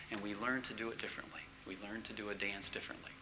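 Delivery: hushed, breathy whisper. Real, not acted. Pastor whispering to the congregation about change. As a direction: whisper it like a secret. Soft aside on learning.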